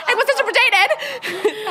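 put-on high, slow, laughing child voice; little girl. Child excusing herself to the teacher, high slow plea. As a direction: imitate a kid trying made-up English. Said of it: "como, claro, una niña".

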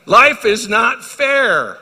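preacher booming the maxim slowly; stress on life. Acted. Preacher to congregation, slow emphatic declaration.

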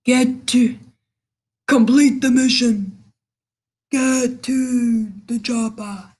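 slow, bored mission-giver drone; flat unmotivated commander reading orders; monotone voice. Retold or imitated. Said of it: "has a monotone voice like".

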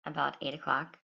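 soft, drowsy morning voice; just woke up, speak sleepily; sleepy voice. Real, not acted. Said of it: "even with my sleepy voice".

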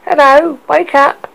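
high loud call; loud wake-up call. A narrator's reading. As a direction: shout her awake. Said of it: "pinching and poking".

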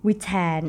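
Vitae as "vee-tae", British-style; British reading of Vitae, "vee-tae"; British pronunciation. Shown as a demonstration. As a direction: open Vitae with "vee", not "vai". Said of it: "ออกเสียงแบบอังกฤษ".

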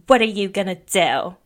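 mildly pointed retold challenge; Sam. Quoting a girlfriend confronting her ex, mildly challenging. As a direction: throw the question out with some push.

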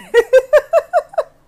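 loud high laugh through tears; tearful giggle; high teary laugh. Real, not acted. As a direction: let the embarrassed laugh burst out. Laughing while tearing up.

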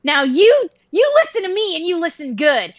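stern, rousing speech to a friend; rally them like a movie hero; hammed-up motivational command, rising in pitch; mock patriotic pep talk. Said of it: "there was, like, this patriotic music".

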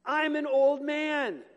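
put-on an old priest questioning the angel slowly; doubting old Zechariah. Zechariah pleading doubt to the angel, slow and loud. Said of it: "Zechariah said to the angel".

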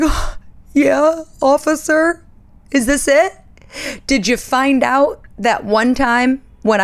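hammed-up panicky teen begging the officer; mock guilty confession. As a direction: blurt out tiny crimes as if caught at last. Confessing petty crimes to police.

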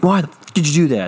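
mock-yell at a puppy on the floor; half-hearted angry owner; scolding owner.

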